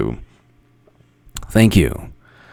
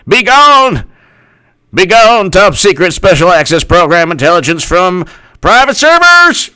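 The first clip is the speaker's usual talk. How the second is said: loud, high mock exorcist command; mock exorcism; 3 semitones higher, 3 dB louder than usual. Mock exorcist shouting at leaked secrets. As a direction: cast it out like a preacher.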